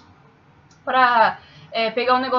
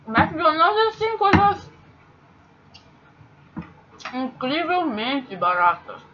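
talking with mouth full; 4 semitones higher, slower than usual. Real, not acted. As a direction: speak through a mouthful of food. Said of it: "É feio falar de boca cheia". (falando de boca cheia)

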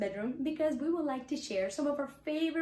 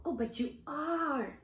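gentle insisting; 3 semitones higher, 4 dB quieter than usual. Acted. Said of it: "insisted Rabbit".

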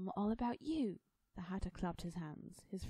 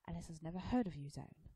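mildly bitter Hatter; understated bitterness; bitter, smirking. Acted. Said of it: "the Hatter said bitterly, with a smirk".

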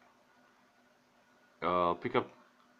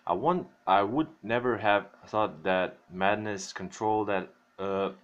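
chewing gum. Real, not acted. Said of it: "chewing gum in my mouth".

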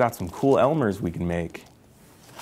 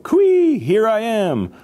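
very high, loud cooee; calling out; 12 semitones higher, 6 dB louder, much slower than usual. A narrator's reading. Hidden trickster teases the searchers, high drawn-out call. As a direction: sing out playfully from hiding. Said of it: "It called".

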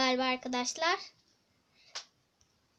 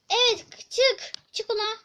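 loud, urgent yell; excited shout; 5 semitones higher, 4 dB louder than usual. Real, not acted. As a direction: cheer the player out the door. Oyunda heyecanla bağırıyor. (heyecanlı bağırış)

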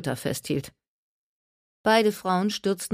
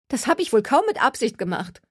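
defensive Gertie; 7 semitones higher, 3 dB louder than usual. A narrator's reading.

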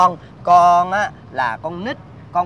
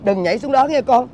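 pleading. Acted. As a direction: coax the child gently. Father begs the child.

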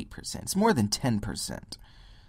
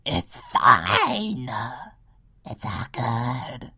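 mock gullible people; 4 dB louder than usual. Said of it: "People are like".

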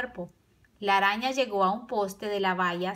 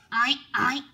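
pig grunt; 2 semitones higher than usual. A narrator's reading. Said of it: "gruñó el cerdo".

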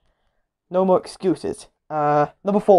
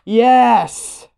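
happy yes; 4 semitones higher, 4 dB louder than usual. Real, not acted. Low value revealed.

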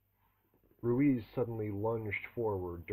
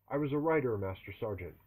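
shouted reply; 3 semitones higher, 5 dB louder than usual. Acted. Recruit shouting answers at drill sergeant.

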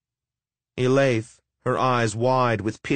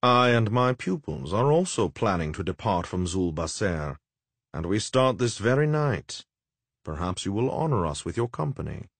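oily necromancer. Acted. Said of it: "oily, mocking speeches".

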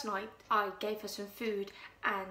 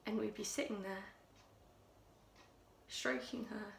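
Louise, hushed and menacing; 2 semitones higher, 6 dB quieter than usual. Acted. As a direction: draw them in with a chilling hush. Louise quietly recounts strangling the cat.

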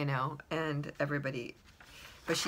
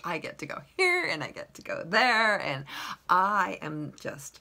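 excited boast; 7 dB louder than usual. Retold or imitated. Dog boasting of playtimes.

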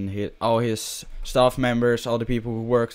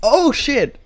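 hyped yelling; 9 semitones higher, 9 dB louder than usual. Real, not acted. Hyped during a kill streak.

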